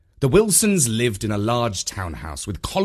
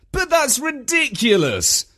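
high-pitched indignant exclamation; incredulous outburst; 3 dB louder than usual. A narrator's reading. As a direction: burst out in disbelief, pitched high. Visitor's unspoken protest.

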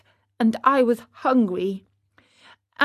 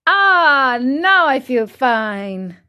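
satisfied sigh; 3 semitones higher, 5 dB louder, much slower than usual. A narrator's reading. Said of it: "he said after eating the last one".

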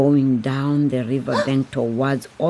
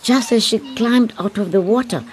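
louder, urgent storytelling; tense narration; 5 semitones higher, 4 dB louder than usual. A narrator's reading. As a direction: build the danger. Narration builds to danger.

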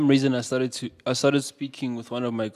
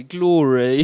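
British accent; 5 dB louder than usual. Shown as a demonstration. Man demonstrating his name for teasing co-hosts, British accent. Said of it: "in the British accent".

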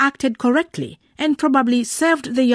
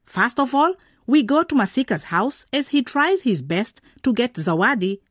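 bright presenter intro; radio presenter. A narrator's reading. Presenter welcoming listeners to the drama, host voice.

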